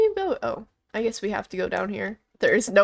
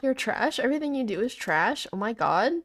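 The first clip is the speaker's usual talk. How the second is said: mock Valorant trash-talk accent, questioning lilt; 3 dB quieter than usual. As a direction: put on the Valorant accent, ends lifting. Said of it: "Why is this called the Valorant accent".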